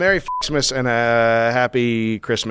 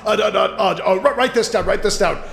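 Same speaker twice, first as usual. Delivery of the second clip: booming theatrical god king; hammy stage actor; 6 semitones higher than usual. Acted. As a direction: ham it up as a Norse god. Plays Odin.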